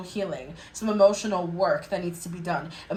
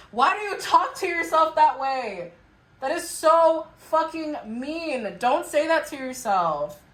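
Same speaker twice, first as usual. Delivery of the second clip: raised pitch, exasperated reproach; appalled scolding; 6 semitones higher than usual. Acted. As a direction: scold them in mock dismay. Scolds listeners for mean self-talk.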